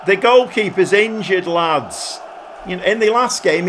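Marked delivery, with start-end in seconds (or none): 0.1-2.2 mock manager shouting from the touchline, a little higher; touchline call. Shown as a demonstration. Manager yelling at his players, mock touchline call. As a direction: call "goalkeeper's" out to the players like a coach. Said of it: "Shall I do one of my touchline things".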